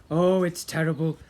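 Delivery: loud, leering pirate; pirate captain voice. Acted. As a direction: gloat it out like a pirate.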